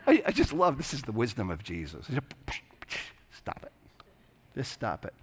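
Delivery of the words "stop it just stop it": calm correction. Shown as a demonstration. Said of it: "don't think that there's anger in his tone".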